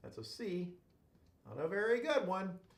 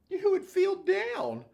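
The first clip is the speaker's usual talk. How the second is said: silly punchline; 13 semitones higher, 3 dB louder, slower than usual. Shown as a demonstration.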